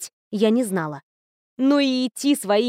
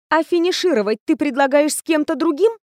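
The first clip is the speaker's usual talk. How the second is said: angry retort; 5 semitones higher than usual. Acted. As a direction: snap back at her angrily. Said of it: "злобно осведомилась я". (злой, резкий вопрос)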